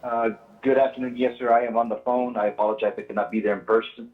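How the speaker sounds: faint voice over a speakerphone; distant, hard to hear on the phone; barely audible. Real, not acted. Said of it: "Can't hear him".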